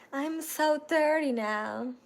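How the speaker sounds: slow words through a laugh. Real, not acted. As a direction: laugh it out, amused at herself. Laughing about turning thirty.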